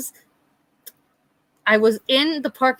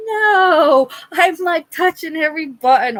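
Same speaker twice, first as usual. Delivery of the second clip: panicked; 8 semitones higher, 4 dB louder than usual. Retold or imitated. Panicking over a wrong text.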